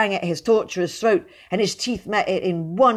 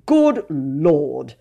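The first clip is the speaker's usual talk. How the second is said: moaned; 4 dB louder than usual. A narrator's reading. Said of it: "he moaned".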